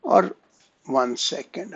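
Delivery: halting, stumbling over words; stammering. Real, not acted. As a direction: trip over the start of the sentence. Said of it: "I don't know why I'm again stammering so much".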